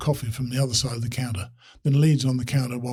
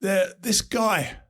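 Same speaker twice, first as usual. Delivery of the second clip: slow, distant and cutting out over a bad line; faint anxious voice through a crackly phone; anxious broken phone voice; 7 semitones higher, much slower than usual. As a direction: sound far off and breaking up on a phone. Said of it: "says the anxious, broken voice".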